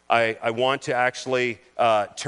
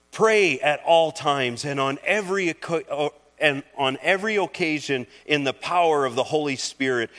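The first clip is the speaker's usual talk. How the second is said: scripture reading. Acted. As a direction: proclaim the verses to the congregation, slowing on the urgent lines. Pastor reads Paul's letter aloud.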